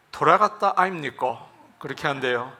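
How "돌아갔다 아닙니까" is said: a light Gyeongsang dialect question. Shown as a demonstration. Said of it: "경상도에서는".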